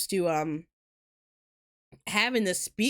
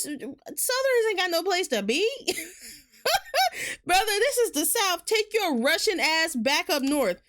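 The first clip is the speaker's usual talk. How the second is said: higher pitched mock Southern accent; 8 semitones higher than usual. A Southerner scolding a rushing northerner in a mock Southern accent. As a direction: play a brash Southern local in a Southern accent.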